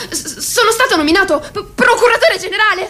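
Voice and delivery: stammered with a nervous laugh, pitch climbing; stammering. Acted. Pale youth leader stammers out his new post, nervously laughing. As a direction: trip over the words, scared.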